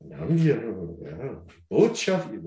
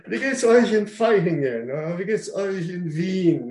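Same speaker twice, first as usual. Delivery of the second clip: higher, fast, chirpy mock hello; mock greeting; 8 semitones higher than usual. Preacher mimicking a church greeting, higher and quick. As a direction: play a cheery churchgoer greeting a friend.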